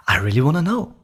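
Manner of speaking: high, curious and sincere; really wanna know tonality. Shown as a demonstration. Salesman demonstrating a curious tone. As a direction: say it as if you truly want to know. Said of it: "Try that out right now".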